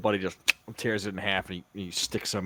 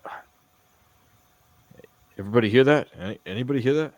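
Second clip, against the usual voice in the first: gruff character voice; 3 semitones higher, 8 dB louder, faster than usual. Acted. Buddy's character voice in play.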